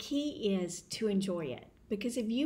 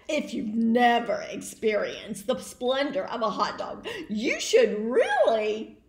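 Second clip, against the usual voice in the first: louder, laughing brag about a treat; boastful pigeon; 6 dB louder than usual. Acted. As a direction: show off with a chuckle. Pigeon boasts about hot dogs.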